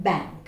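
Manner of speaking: "bank" with a clear nasal æ; correct pronunciation. Shown as a demonstration. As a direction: model the right "bank". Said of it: "The word is pronounced".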